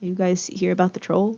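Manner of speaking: voice dropped low and quiet. Narrator voicing a man as the group approaches him; lowered voice. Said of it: "he kind of lowers his voice as you guys approach".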